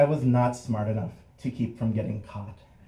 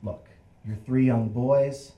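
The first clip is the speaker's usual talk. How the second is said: softened cop. Acted. Cop comes back to three boys, softened and understanding. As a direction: let it out gently with careful pauses. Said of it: "his face is softened".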